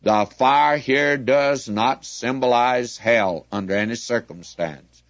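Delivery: "The fire here does not symbolize hell" stressed firmly, word by word; great emphasis. Real, not acted. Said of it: "say it with great emphasis".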